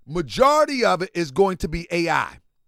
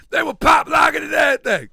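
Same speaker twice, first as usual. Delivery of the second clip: excited fast talk; 7 semitones higher, 5 dB louder, faster than usual. Real, not acted. Hyped fast recollection.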